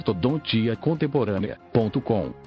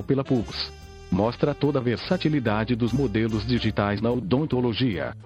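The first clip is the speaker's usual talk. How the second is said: synthesized voice. Real, not acted. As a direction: read it like a computer voice. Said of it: "falo através desta voz sintetizada". (voz sintetizada de computador)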